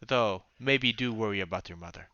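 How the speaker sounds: lightly voiced wry second thought; in-character second thought. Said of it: "Inete sort of coming up towards Heinrich and says".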